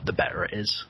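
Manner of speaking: breathy whispered aside; hushed, conspiratorial whisper. Real, not acted. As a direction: drop to a sly whisper for the punchline. Punchline trailing into a whisper.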